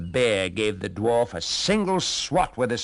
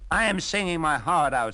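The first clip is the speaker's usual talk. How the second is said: rooster voice; 8 semitones higher, 5 dB louder than usual. Acted. Rooster speaks.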